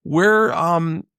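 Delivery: a high, stammered customer reply; flustered mom. Retold or imitated. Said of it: "And she goes".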